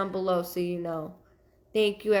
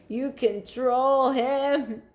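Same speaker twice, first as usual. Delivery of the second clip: slow, higher, stretched-out imitation; drawn-out relayed quote; 4 semitones higher, much slower than usual. Medium repeats a spirit's words with amusement, drawn out. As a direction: repeat it slowly, dragging every word into a laugh.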